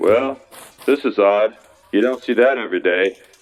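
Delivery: fake low baritone voice. Retelling what a coworker said in an odd moment: Rick's deep baritone voice. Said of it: "he said in his deep baritone voice".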